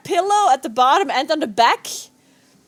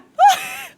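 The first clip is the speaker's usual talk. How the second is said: despairing laugh. Real, not acted. Despairing after failed key.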